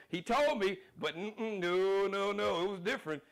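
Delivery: high, loud mocking Trump voice with laughs. Host mocks Trump refusing a debate, high whiny impression. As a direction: play Trump as a scared, whiny loser backing out. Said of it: "And he was like".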